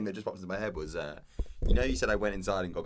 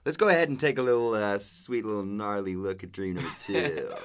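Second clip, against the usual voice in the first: mock surfer dude; 5 dB louder than usual.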